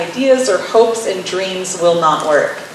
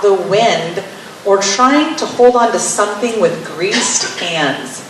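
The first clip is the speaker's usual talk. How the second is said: scripture reading; slower than usual. Acted.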